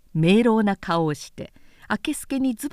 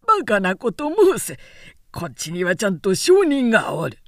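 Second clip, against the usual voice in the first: put-on louder, pressing old retainer; stern angry retort; 4 dB louder than usual. Old retainer firing back at Harada, raised and stern. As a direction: push back hard, voice raised. Namie blusters.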